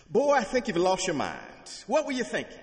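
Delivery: high, loud scolding mother voice; fussing mother. Retold or imitated. Mother fussing at her son, loud exasperated scolding. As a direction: scold him like an exasperated mom.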